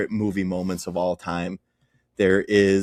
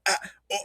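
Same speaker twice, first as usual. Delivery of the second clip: stammered high, soft vowel noises; Dave Franco; 12 semitones higher, 5 dB quieter than usual. Retold or imitated. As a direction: imitate a helpless, wordless stammer. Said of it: "stuttering and stammering".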